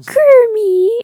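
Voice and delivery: very high, shrieking pig puppet voice. Asked to do a Miss Piggy, answering with a Miss Piggy impression. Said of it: "I can't do it because I have a girl's voice".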